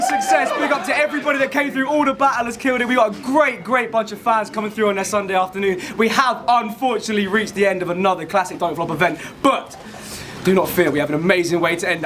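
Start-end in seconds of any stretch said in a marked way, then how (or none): 6.0-12.1 smooth, low showman announcing; game show host voice. Real, not acted. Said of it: "talking like a fucking game show host".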